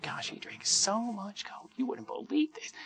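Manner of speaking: a light mock child's gasp of wonder; kids' amazed voice. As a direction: play a wide-eyed child, slowly. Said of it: "it's kinda like".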